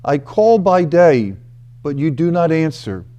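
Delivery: measured reading of a lament; scripture reading. Acted. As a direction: read the psalm slowly, with weight. Reads the psalm aloud.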